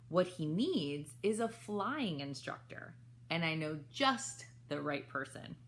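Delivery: put-on lively read-aloud for children; story narration. A narrator's reading. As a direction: tell the story warmly to young listeners. Reads picture book aloud.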